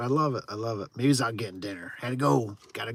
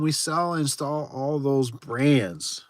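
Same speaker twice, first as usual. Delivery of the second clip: slow puzzled reading; much slower than usual. Shown as a demonstration. Streamer reads a confusing chat message aloud slowly. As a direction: read the chat line out slowly. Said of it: "I am so still confused".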